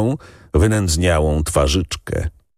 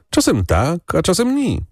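put-on high, tearful village boy; peasant boy; 13 semitones higher than usual. A narrator's reading. Boy tells the lady, high and tearful. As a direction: speak as a guilty little shepherd boy.

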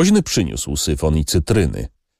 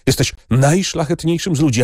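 moved; 9 semitones higher than usual. A narrator's reading. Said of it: "mówił wzruszonym głosem".

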